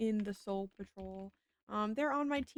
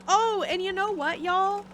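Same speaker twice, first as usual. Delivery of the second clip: sudden realization; 9 semitones higher, 7 dB louder, slower than usual. Real, not acted.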